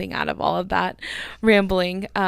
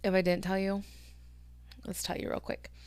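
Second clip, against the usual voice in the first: soft, fading whisper; 11 dB quieter than usual. Real, not acted. Podcaster whispering to listeners between sips. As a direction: breathe it almost silently. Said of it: "fading whisper".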